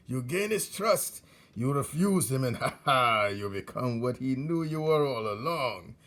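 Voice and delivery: put-on gleeful old rat, chuckling as he talks; laughing through words. Old rat retells the cruel trick, laughing through words. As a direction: speak between bursts of laughter. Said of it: "laughed so hard".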